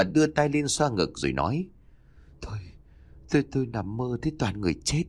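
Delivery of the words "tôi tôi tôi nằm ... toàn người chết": shaken stammer. Acted. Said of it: "cố lấy lại bình tĩnh".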